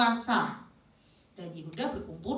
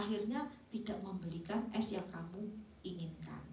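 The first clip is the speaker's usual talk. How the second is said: lower intonation; 6 dB quieter than usual. Shown as a demonstration. Explaining forgotten ice to someone, low gentle intonation. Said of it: "ya, lebih rendah".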